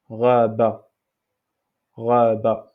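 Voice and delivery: Rabat with a throaty gargled R at the back. Shown as a demonstration. Teacher showing the class the throat R in Rabat. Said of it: "le R de gargarisme".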